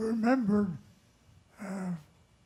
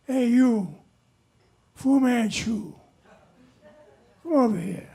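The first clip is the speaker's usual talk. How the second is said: brash customer; 6 dB louder than usual. Acted. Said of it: "he says to the Chinese guy".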